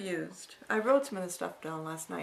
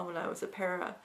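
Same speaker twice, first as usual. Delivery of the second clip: ordinary talk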